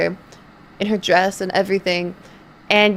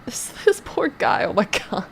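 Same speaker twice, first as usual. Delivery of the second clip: laughing; 6 dB quieter than usual. Real, not acted. Laughing while telling sad story.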